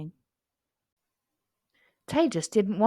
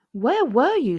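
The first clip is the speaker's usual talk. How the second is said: scolding; 5 semitones higher, 7 dB louder than usual. A narrator's reading. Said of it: "scolded Tara".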